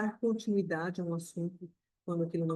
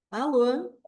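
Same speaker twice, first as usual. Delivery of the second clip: friendly phone hello with a smile on the lips; smiling Alô on the phone; with a light smile; 4 semitones higher, 6 dB louder than usual. Shown as a demonstration. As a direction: answer the phone smiling, pleasant and open. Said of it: "eu só mudei a expressão dos meus lábios".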